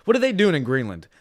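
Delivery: what are they doing, yelled up high; mock outraged shout. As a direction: shout it like a fired-up fan. Mock outraged question, loud.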